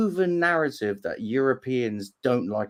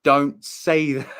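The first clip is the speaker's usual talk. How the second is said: slow, spaced-out warning; retold warning; much slower than usual. Explaining his shock at the word, slow warning. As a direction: draw out the caution, half laughing. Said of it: "that's why I went".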